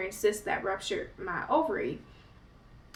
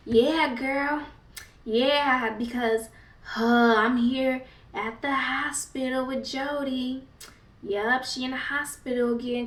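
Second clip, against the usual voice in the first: mock gossiping mom; 3 semitones higher, slower than usual.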